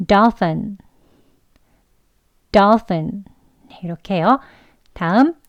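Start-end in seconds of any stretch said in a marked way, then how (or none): 0.1-3.2 "dolphin" with a plain "fin" ending; teacher giving the fin variant. Shown as a demonstration. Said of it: "fin이라고도 발음을 해요".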